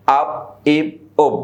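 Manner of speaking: "আব", "ইব", "উব" as separate syllables shut on b; sakin closed syllables. Shown as a demonstration. Teacher showing how sakin works, vowel caught by a closing b. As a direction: let each vowel catch the b in "আব", "ইব", "উব". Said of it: "তাহলে আটা বটাকে ধরেছে".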